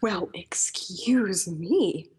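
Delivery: slow indignant whisper; mock-offended and slow; offended huff. Offended gasp and retort.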